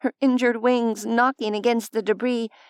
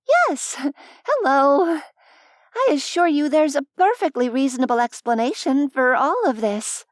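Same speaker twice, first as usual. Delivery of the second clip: higher, over-bright nervous hello; sheepish greeting; 3 semitones higher than usual. Acted. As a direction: cheerfully cover the wreckage.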